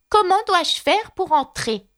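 Alice insisting at the door; loud repeat. A narrator's reading. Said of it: "répéta-t-elle à haute voix".

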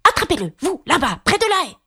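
high rabbit voice calling an order; voix du lapin. A narrator's reading. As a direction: pitch it up and call across the garden. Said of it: "Puis la voix du lapin seul". (ordre lancé d'une voix aiguë de lapin)

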